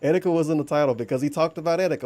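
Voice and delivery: a touch of a gruff cartoon detective; lightly put-on Gumshoe impression. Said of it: "my own version of the Gumshoe voice".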